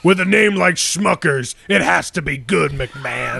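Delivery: ad slogan impression.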